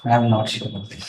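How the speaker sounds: soft, hesitant admission; quietly unsure, a little embarrassed; nervous formal interview. Real, not acted. Candidate unsure under questioning.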